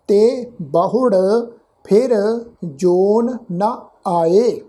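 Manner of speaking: slow Gurbani reading, each word drawn out; measured scripture recitation. Shown as a demonstration. Teacher showing the congregation how to read the verse, slow measured recitation. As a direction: recite deliberately with pauses between words.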